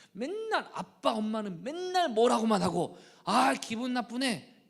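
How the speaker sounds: put-on high, loud, slow whiny kid voice; sulky child. Child grumbling about nagging parents, whiny kid voice. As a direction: whine like a grumpy child.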